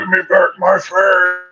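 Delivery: lightly hammed-up gruff movie character, drawn out. Co-host acting out the unmasked hero's line, gruff voice. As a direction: quote the film line slowly in a put-on gruff voice. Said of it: "you hear his gruff voice".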